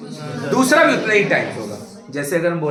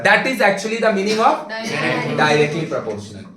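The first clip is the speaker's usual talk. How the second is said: slow, deliberate summing-up; 3 semitones higher, much slower than usual. Real, not acted. Teacher driving the definition home to students, very slow. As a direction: spell the definition out word by word, very slowly.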